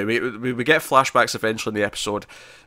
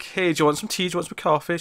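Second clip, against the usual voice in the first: mock sugary offer, higher; sweet Aunt Lydia; 6 semitones higher than usual. Lydia offering June tea, mock sugary kindness. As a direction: sweeten it up like a falsely kind aunt. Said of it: "She's like".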